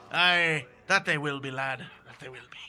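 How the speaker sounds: captain voice. Acted.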